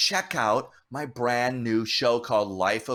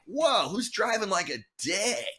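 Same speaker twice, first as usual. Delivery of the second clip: retold startled shout; 10 semitones higher than usual. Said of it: "I'm like".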